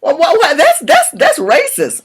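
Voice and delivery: high, pearl-clutching mock gasp of outrage; mock shocked white woman. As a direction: imitate an offended lady clutching her pearls. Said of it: "this white woman, like, she crushed her pearls".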